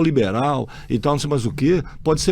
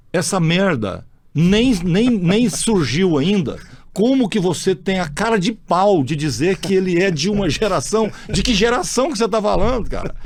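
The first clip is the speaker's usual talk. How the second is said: blunt retort; 4 semitones higher than usual. Retold or imitated. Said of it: "Leal, você é muito bruto".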